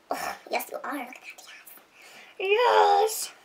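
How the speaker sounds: hushed, drawn-out approval; breath-only gushing; whispered admiration. Pretend. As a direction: whisper it adoringly to the swatch. Cooing over the lipstick swatch.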